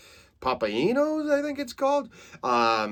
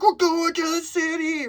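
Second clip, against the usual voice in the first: much higher, put-on kid voice; excited kids; 4 dB louder than usual. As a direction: chant it like a thrilled kid. Kids hyped going to city.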